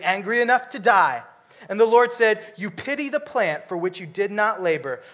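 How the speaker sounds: measured scripture reading. Acted. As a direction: read the verses out to the congregation.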